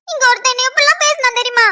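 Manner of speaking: high, crying complaint; tearful complaint. Acted. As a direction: wail the grievance to a sister. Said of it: "ஏன்டி அழுகுற?".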